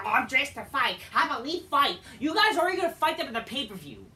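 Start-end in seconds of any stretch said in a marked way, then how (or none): 0.1-2.0 mock wrestler challenge.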